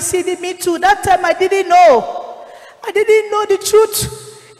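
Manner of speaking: begging her dead friend to understand, pleading and tearful; pleading, near tears. Retold or imitated. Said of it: "I was pleading to him".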